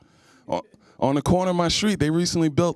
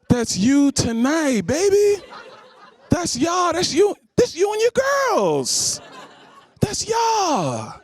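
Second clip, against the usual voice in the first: mock gleeful taunting; 11 semitones higher, much slower than usual. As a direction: rub it in, shouting higher. Comic showing ugly photo.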